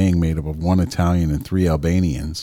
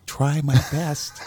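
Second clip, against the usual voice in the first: put-on Chinese accent; 7 semitones higher, 3 dB quieter, slower than usual. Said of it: "Can you do a Chinese accent?".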